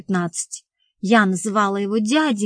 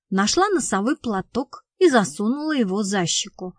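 plain reading voice

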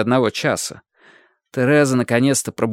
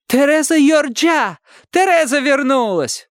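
much higher, louder street gossip; gossiping neighbours; 11 semitones higher, 3 dB louder than usual. Acted. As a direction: neighbours shouting the news. Neighbourhood gossip voices calling.

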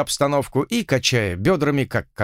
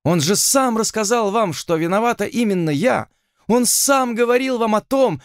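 much higher, rising distress; tearful outburst; 9 semitones higher than usual. Acted. Heroine insists to the lord she was wrong, voice climbing higher. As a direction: pour out the guilt ever higher.

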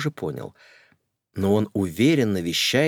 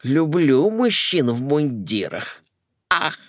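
dreamy swoon; 6 semitones higher, 3 dB louder, slower than usual. Acted. Lady swooning over uniforms.

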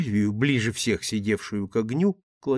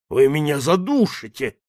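gasping, strangled protest; choking gasp; 3 semitones higher, 4 dB louder than usual. Acted. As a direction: choke the words out as if throttled. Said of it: "задыхаясь, прохрипел он".

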